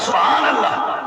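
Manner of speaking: "سبحان اللہ" exclaimed with a lift of joy; a joyful "سبحان اللہ" with an upward lift; happy exclamation. Shown as a demonstration. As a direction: say "سبحان اللہ" delighted, rising at the end. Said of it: "خوش ہو کے بندہ کہتا ہے".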